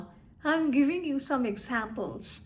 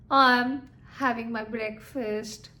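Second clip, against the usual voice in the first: calm, even statement with falling intonation; sweet, calm statement; 3 semitones lower than usual. Shown as a demonstration. Teacher showing students a calm statement, sweet falling intonation. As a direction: say it sweetly and coolly, as a simple statement. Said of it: "is a sweeter voice, normal voice".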